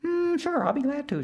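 very high, buzzing insect voice; high whiny mosquito, eager to help; tiny mosquito voice. Acted. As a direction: squeak it like a little mosquito.

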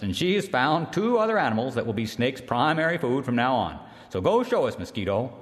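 formal announcement. Acted. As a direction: announce it to the whole council. Earthmaker announcing to council.

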